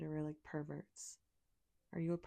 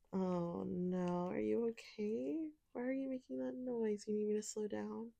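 higher-pitched fake worry; mock concern; 4 semitones higher than usual. Asking if the partner is okay, mock concern. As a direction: coo it with pretend concern.

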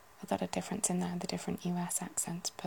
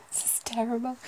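laughing; 4 semitones higher than usual. Real, not acted.

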